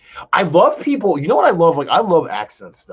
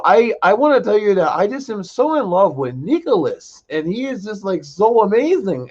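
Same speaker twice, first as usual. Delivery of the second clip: higher, mock British accent; lightly put-on UK friend swooning; 7 semitones higher than usual. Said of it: "United Kingdom accent".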